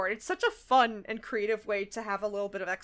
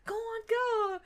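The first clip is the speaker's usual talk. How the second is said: urging Rarity; 10 semitones higher, 4 dB quieter, slower than usual. Retold or imitated. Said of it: "So Rarity's like".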